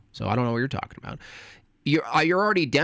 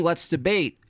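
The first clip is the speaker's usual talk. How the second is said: mocking; 5 semitones higher than usual. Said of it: "You keep saying".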